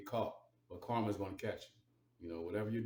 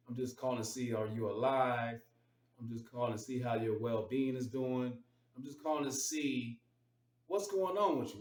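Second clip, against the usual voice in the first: mock check-in call; 3 semitones higher than usual. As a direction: play the overly sweet relative checking in. Mocking a dutiful check-in call.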